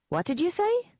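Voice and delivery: high, sly little voice; leprechaun voice. A narrator's reading. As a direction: ask it in the tiny creature voice.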